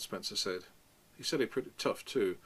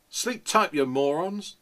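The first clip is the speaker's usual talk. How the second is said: loud, high yell down the corridor; 7 semitones higher, 9 dB louder, slower than usual. Acted. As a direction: bellow it at the whole floor. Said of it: "I yelled at the top of my goddamn voice".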